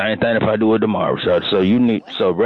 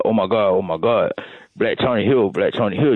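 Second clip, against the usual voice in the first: excited coworkers. Retold or imitated. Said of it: "everybody gonna be like".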